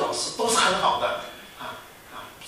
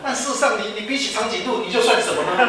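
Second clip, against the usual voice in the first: laughing while talking; 7 semitones higher, 5 dB louder than usual. Real, not acted. Laughs mocking height obsession.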